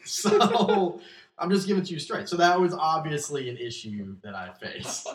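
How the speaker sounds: laughing through the words; high, loud laughing confession. Real, not acted.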